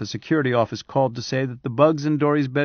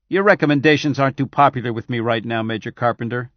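snarling; 3 dB louder than usual. Acted. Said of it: "Scannion snarled".

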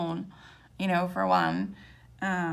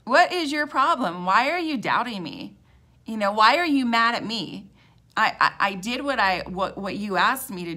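exasperated Lord; 4 dB louder than usual. Retold or imitated. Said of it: "the Lord is like".

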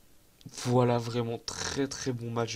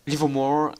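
English accent try; 5 dB louder than usual. Shown as a demonstration. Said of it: "J'ai essayé de le dire avec l'accent".

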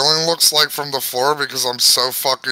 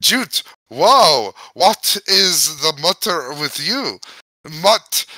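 put-on reading gibberish in an Irish accent; lilting Irish accent, storybook reading. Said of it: "now I'm fucking doing the Irish".

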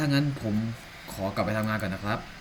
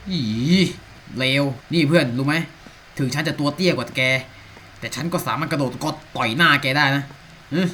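mock threat; 3 semitones higher, 5 dB louder than usual. Mock threat to game character.

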